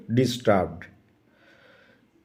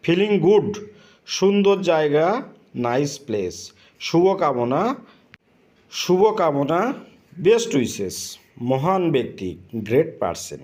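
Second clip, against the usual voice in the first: careful pronunciation drill; slower than usual. Shown as a demonstration. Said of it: "প্রোনাউন্সিয়েশনটা লক্ষ্য করবেন".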